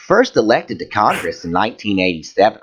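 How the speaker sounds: campy Southern reading voice; lilting hammed-up Southern accent; put-on Southern accent. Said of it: "I don't know why I'm doing this voice".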